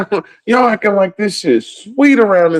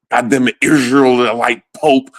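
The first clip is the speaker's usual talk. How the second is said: mock convinced voter; 5 semitones lower than usual. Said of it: "I'll be like".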